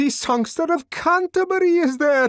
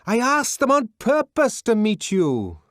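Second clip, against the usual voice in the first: high, loud coaxing yell; coaxing shout through a door; persuasive shout; 10 dB louder than usual. A narrator's reading. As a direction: persuade at the top of your voice. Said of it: "at the top of one's voice".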